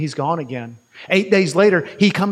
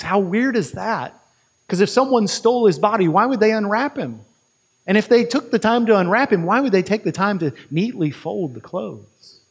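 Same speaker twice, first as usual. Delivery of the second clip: acted puzzlement, pitched up; puzzled thinking aloud; 4 semitones higher than usual. Peter puzzles over the grave clothes, puzzled and higher. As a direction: wonder aloud in mild disbelief. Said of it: "And he thinks".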